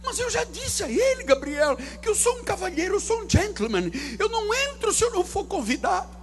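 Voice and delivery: high, prissy mock-polite voice; a lightly hammed-up dainty gentleman; mock prim gentleman. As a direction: play a fussy genteel gentleman. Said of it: "preacher mocking polite God".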